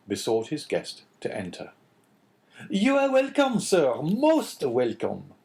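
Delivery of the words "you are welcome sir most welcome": high, loud, fawning innkeeper voice; much higher and louder bowing innkeeper; astonished innkeeper. A narrator's reading. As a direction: greet him like an eager host, high and loud. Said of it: "repeated the astonished Caderousse".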